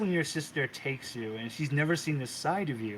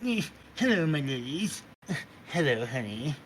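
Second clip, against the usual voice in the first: Oberon's casual voice. Acted. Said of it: "he just has this voice".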